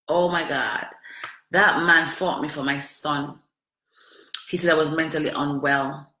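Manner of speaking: normal talking voice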